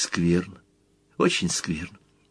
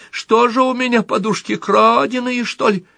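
plaintive mother voice; 14 semitones higher than usual. Pretend. Little Motl plays the mother, whining plaintively. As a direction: whimper it like a put-upon mother. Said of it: "Мотл маленький".

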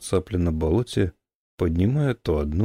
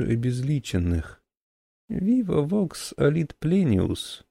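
put-on very old man; 4 semitones higher than usual. Old man long speech.

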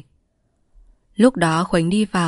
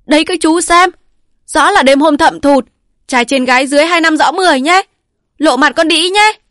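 high shrill accusing yell; wife yelling to the militiamen about the affair; yelling loud; 10 semitones higher, 8 dB louder than usual. A narrator's reading. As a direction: scream the accusation to everyone. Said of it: "Vợ bài gào to".

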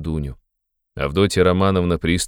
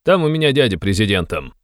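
impassioned exclamation; 6 semitones higher, 3 dB louder than usual. A narrator's reading. Razumikhin vows to stay by his friend, exclaiming. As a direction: cry it out higher, slowing for emphasis. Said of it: "вскричал Разумихин".

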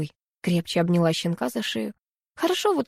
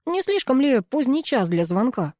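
surprised; 6 semitones higher than usual. A narrator's reading. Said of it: "с удивлением проговорил".

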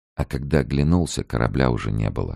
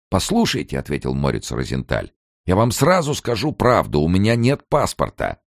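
put-on higher, anxious old man protest; pleading old emigrant; 7 semitones higher than usual. A narrator's reading. Morets argues with the gatekeeper about the border, higher anxious voice.

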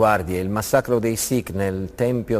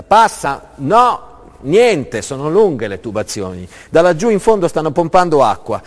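shouting workers; 5 semitones higher, 6 dB louder than usual. Acted. Workers shouting over the pumps.

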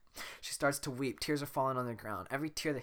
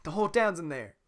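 put-on southern donkey accent; 6 semitones higher, 8 dB louder than usual. Donkey reporting the crowd in a Southern accent. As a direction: say it like a country donkey. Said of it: "that was a really southern donkey".

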